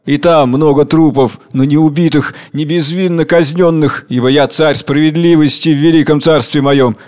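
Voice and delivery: grandiose tyrant king, lightly voiced; a hint of a proud cruel king; Tsar Hunger. (властный царь, слегка сыгранный)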